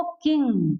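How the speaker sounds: किंग ending in a held nasal "ng"; anusvara as "ng". Shown as a demonstration. Teacher showing why anusvara before ka changes, "ng" ending. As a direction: close किंग on a ringing "ng". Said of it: "मैंने क्या पढ़ा इसको?".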